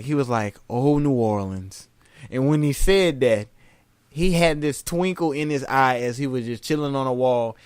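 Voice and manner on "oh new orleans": slow dreamy. Retold or imitated.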